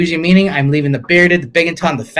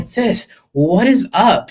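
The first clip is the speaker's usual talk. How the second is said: sassy demand; 5 semitones higher, slower than usual. Retold or imitated. Retold plea to the doctor.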